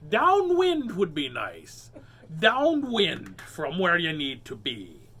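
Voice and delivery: slow loud wry quip; wry joke. Real, not acted. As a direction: drawl the joke. Joking aside.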